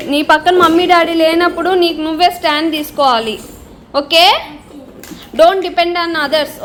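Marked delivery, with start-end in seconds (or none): 5.3-6.6 each word drawn out slowly to drive the lesson home; slow emphatic advice. Real, not acted. Mother to son, slow and emphatic. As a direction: lay it down slowly and firmly so it sticks.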